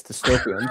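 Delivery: dystopian with a clear t, dis-TOE-pee-an; Northeast dystopian. Shown as a demonstration. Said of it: "I'm from the Northeast where we don't have accents".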